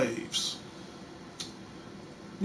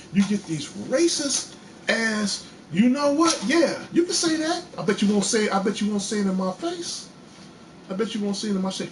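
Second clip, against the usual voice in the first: heated challenge; 4 semitones higher than usual. Real, not acted. Confronting racist callers.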